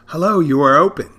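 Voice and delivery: high, loud imitation of a surprised caller. Woman caller to the restaurant, loudly surprised. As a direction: greet them as if amazed anyone answered.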